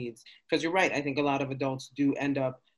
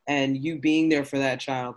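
louder, emotional, voice swelling; welling up, near tears; 6 dB louder than usual. Real, not acted. New mom moved by the host's baby story, louder and near tears. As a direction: pour it out as the tears rise. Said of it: "welling up".

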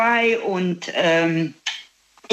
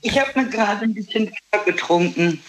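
echoey room; 3 semitones higher than usual. Real, not acted. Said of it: "es klang wie der Porzellanthron".

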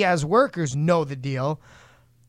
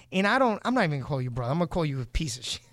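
ordinary talk, nothing marked

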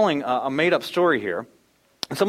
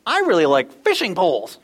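put-on child's non sequitur; 3 semitones higher, 6 dB louder than usual. Three-year-old daughter's random reply.

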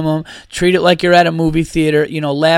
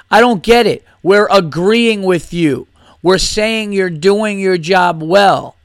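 slow dumb heckler; 3 semitones higher, slower than usual. Retold or imitated. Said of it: "And he goes".

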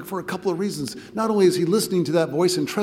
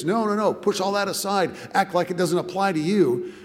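higher, brisk dismissive urging; insistent denial; 5 semitones higher, 3 dB louder than usual. Acted. Fear urging someone to deny wrongdoing, insistent denial. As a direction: voice Fear waving it all away, lightly acted.

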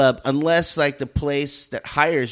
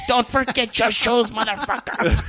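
higher, laughing mock call after him; laughing taunt; 8 semitones higher than usual. Teller taunting the boy who ran off, laughing. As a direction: taunt him while cracking up. Teller mocking fleeing kid.

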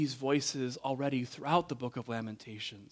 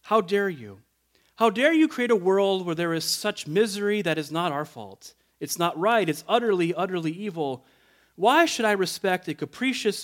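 raised, indignant retelling of an angry atheist; indignant anger; 3 semitones higher than usual. Retold or imitated. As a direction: hurl the accusation at God with indignation. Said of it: "tone of indignation and anger".

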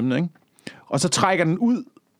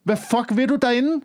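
1 mock scolding; 7 semitones higher than usual. Talking to migrants, mock scolding.

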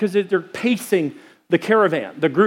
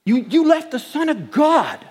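mock teasing; 6 semitones higher than usual. Friend teasing Joseph, laughing.

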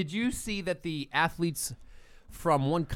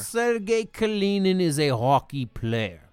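fake Russian accent; 3 semitones higher than usual. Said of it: "What accent is this, Mike?".

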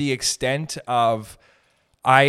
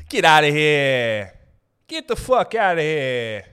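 slow, loud, get out of here; louder slow dismissal; 2 semitones higher, 6 dB louder, slower than usual. Shown as a demonstration. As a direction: blow them off, louder each time.

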